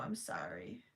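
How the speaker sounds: a soft whispered sorry; whispered apology. Real, not acted. Apologising to the viewer, whispered. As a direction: breathe the apology out. Apologising for not knowing Sanrio.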